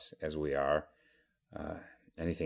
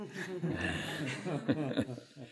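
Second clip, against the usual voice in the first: laugh; 10 semitones higher, 5 dB quieter than usual. Real, not acted. Audience and teller amused by setup.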